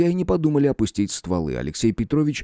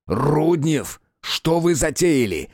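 higher, slow yell over the shooting; 5 semitones higher, much slower than usual. A narrator's reading. Detective yelling at Rudnev over gunfire, shouting slowly. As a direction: yell at him mid-firefight. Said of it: "проорал Терентьев".

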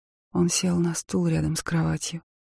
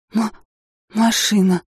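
stammering, higher and louder in shock; 4 semitones higher, 5 dB louder than usual. Acted. Injured woman stammers to her husband in shock. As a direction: stumble over the word in fright. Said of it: "запинаясь, проговорила я".

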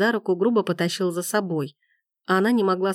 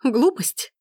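indignant cry; 6 semitones higher than usual. A narrator's reading. Gabrielle repeats Forster's insult in indignant disbelief. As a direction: throw his word back at him, stunned. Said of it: "крикнула она".

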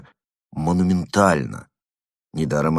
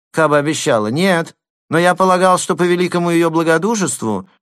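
high, louder wheedling lisp; 10 semitones higher, 4 dB louder than usual. A narrator's reading. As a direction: fawn and lisp, pleading. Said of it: "своим шепелявым голосом".

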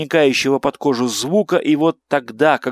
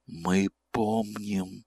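very soft, slow lifeless voice; dead voice; 4 semitones lower, 11 dB quieter, much slower than usual. Acted. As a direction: breathe it out like a corpse. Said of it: "сказал другой мёртвый голос".

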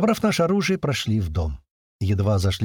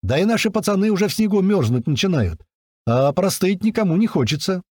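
loud and higher, calling out; shouting; 8 semitones higher, 3 dB louder than usual. A narrator's reading. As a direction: keep calling across. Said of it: "вновь крикнул Апрель".

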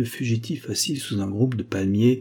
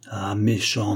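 understated hurt reproach; tearful reproach; slower than usual. Acted. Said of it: "dont les yeux rougissaient de larmes".

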